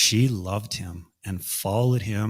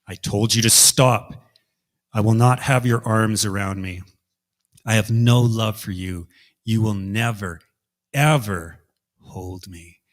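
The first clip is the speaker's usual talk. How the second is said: cold firm rejection; 5 dB louder than usual. Acted. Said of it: "Narcissus told Echo".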